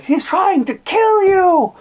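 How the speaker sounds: shrieking high and slow in alarm; a frantic mother crying out; panicked shriek. Retold or imitated. Mom shrieking about her son's long walk, panicked. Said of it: "She was like".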